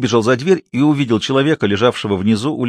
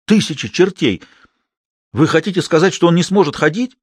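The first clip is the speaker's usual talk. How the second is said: outraged; 7 semitones higher than usual. A narrator's reading. Binet swearing in dismay.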